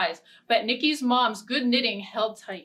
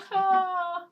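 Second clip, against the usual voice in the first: crow caw; 7 semitones higher than usual. Acted. Confused crow pops out.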